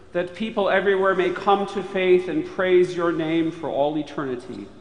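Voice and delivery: usual speaking voice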